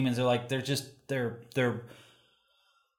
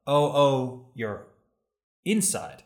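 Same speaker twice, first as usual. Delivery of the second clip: echoing moan; slower than usual. A narrator's reading. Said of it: "the Gala respond".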